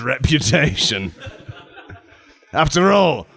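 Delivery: God as a down-to-earth, matter-of-fact informant; lightly voiced chatty God. Plays God answering Gregory.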